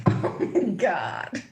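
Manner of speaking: drawn-out stunned "oh my God"; stunned disbelief. Real, not acted. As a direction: gasp it out slowly, amazed. Stunned reaction to card drawn.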